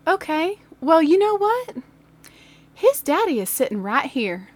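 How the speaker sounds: high, pointed mom voice; imitated stern mom. Kyle's mom hearing he misbehaved, mock stern. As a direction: play a mother who means business.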